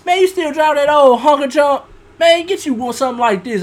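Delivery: mock a flashy show-off; show-off guy. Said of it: "the person be like".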